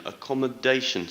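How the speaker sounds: Accommodation repeated, stress on -da-; stress on fourth syllable. Shown as a demonstration. Teacher repeating Accommodation for students, stressed on -da-. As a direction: model Accommodation again, da stressed. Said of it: "Stress is on the fourth syllable".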